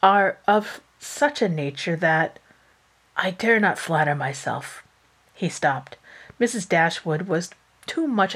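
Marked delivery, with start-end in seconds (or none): 0.0-4.8 confused. Acted. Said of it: "replied Willoughby, confused".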